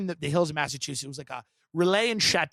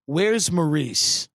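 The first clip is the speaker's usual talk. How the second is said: put-on imperious old lady; 4 dB louder, much slower than usual. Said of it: "She goes".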